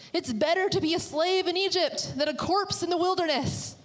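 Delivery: high-pitched, dramatic whining; complaining. Acted. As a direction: pile up the grievances in a high, aggrieved voice. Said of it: "a lot of complaining".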